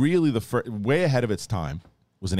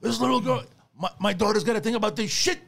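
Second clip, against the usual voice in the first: outraged mother quote; 13 semitones higher, faster than usual. Retold or imitated. Sylvia's outraged quote retold.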